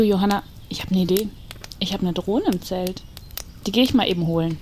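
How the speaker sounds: ordinary delivery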